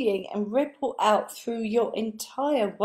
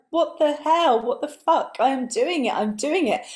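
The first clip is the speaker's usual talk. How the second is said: mock cross outburst; 5 semitones higher than usual. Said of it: "I would get cross".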